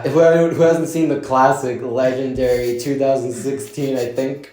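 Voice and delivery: slow, dry mock praise; deadpan sarcastic build-up.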